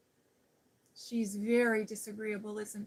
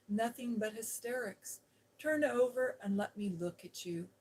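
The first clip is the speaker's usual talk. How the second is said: fierce scolding. Acted. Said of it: "contradicted Mary fiercely".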